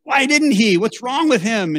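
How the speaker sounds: high, incredulous mock reader reaction; puzzled reader. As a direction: sound baffled at the hero, as a reader would. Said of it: "You're supposed to read it and go".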